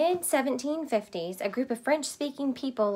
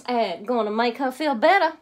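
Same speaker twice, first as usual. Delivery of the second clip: Mama's voice; 6 dB louder than usual. Acted. Mama continues.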